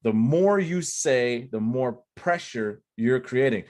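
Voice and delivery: slow, weighted rule; slow, deliberate. Shown as a demonstration. Coach stressing the cardinal rule, slowly. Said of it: "this is a cardinal rule".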